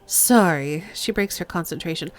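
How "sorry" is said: Sorry said as sɑɹi with a clear r and a rising end; corrected accent. Acted. Speaker apologises again to the lieutenant in the right accent. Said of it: "Oops, wrong accent".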